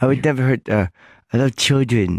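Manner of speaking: put-on ridiculous, oddly childlike talking. Retelling a singer's public TV statement, in the singer's ridiculous put-on childlike voice. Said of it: "He had a really weird way of saying children".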